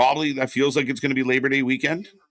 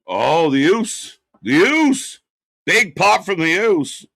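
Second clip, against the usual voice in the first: excited calling out; 5 semitones higher, 4 dB louder, slower than usual. Real, not acted. Calling the wrestler's entrance.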